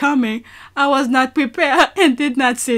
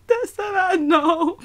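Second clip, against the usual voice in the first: slow, half crying with laughter; laughing helplessly; 5 semitones higher, slower than usual. Real, not acted. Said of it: "I can't stop laughing".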